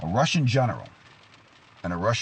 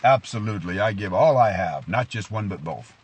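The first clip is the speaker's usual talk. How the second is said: loud, proud mock Russian accent; proud Russian commander; 6 dB louder than usual. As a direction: answer boldly like a cheesy Russian soldier. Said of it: "He stands tall with his shoulders".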